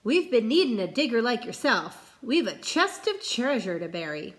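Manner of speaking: lightly voiced gruff pirate captain; a hint of a pirate captain recruiting. Captain recruits the boy, lightly piratey.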